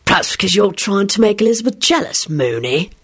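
clear, mocking voice; Sirius. A narrator's reading. Sirius taunts Lupin in his head, mocking. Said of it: "clear and mocking voice of Sirius".

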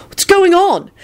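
high, concerned question; high-pitched anxious inquiry; worried. A narrator's reading. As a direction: ask in alarm. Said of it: "he said worriedly".

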